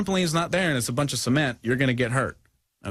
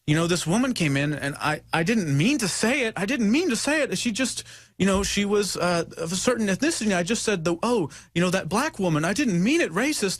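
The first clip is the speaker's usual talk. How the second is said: retold friend; 6 semitones higher than usual. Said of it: "they were like".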